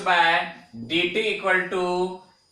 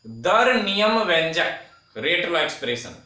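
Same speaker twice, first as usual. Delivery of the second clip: slow dictation. Shown as a demonstration. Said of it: "धीमे धीमे बोल रहा हूं".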